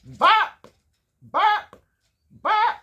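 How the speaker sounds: high, loud yapping bark; yelping train-horn bark. Acted. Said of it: "Let me say it again".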